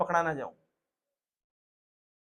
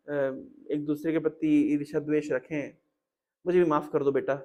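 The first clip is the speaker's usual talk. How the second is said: remorseful; 4 semitones lower, 5 dB quieter than usual. Acted. Diti apologizes to her son Indra, quiet and remorseful. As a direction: sound sorry and subdued. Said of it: "दीति कह रही है कि".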